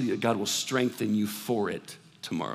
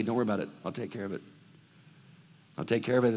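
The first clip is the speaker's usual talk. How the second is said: reassuring voice of God; 3 dB quieter, much faster than usual. Acted. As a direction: settle their fears like a calm father. Voicing God's reassurance.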